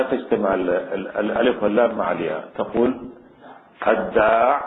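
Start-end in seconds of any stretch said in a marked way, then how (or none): 3.9-4.6 الداع ending without the long ee; без ya: short final kasra. Shown as a demonstration. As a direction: cut the final ي from الداع, leaving only a kasra. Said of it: "بالكسر بدون ياء".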